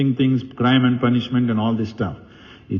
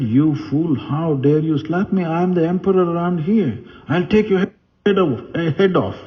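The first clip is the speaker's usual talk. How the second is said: an emperor's hammed-up rage, pitched higher; lightly voiced furious emperor threatening his queen; mock angry emperor; 6 semitones higher than usual. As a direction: play the offended king scolding his queen, half in jest. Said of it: "He got really mad".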